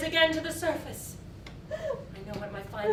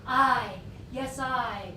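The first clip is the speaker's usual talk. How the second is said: building fury; 2 semitones higher, 7 dB louder than usual. Acted. Building furious confession.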